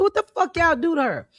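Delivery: high, loud outraged demand; mock outrage at the makeup crew; incredulous yell at the stylists.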